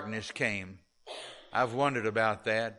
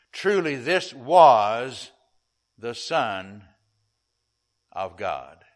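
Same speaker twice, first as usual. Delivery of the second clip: awed centurion; 5 dB louder, slower than usual. Acted. Slow awed quote, fading.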